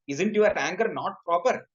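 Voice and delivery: "Isn't your anger not proper?" rising at the end; questioning intonation. Shown as a demonstration. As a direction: ask it as a question, lifting "proper". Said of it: "by intonation, the same thing means".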